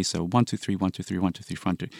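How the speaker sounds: counting one, two, three with the beat on one. Shown as a demonstration. Composer demonstrating a Beethoven scherzo count. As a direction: tick off fast groups of three. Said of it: "very fast groups of three".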